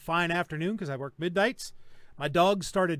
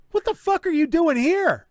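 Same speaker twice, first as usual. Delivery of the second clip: a higher, louder retold snap at the intruders; angry retort; 9 semitones higher, 7 dB louder than usual. Homeowner confronting armed men in his house, retold angry shout. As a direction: let the homeowner's anger flare up. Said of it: "And I'm like".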